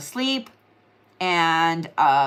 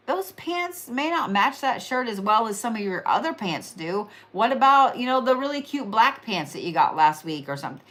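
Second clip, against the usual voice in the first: tactful suggestion. Shown as a demonstration. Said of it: "you should say something like".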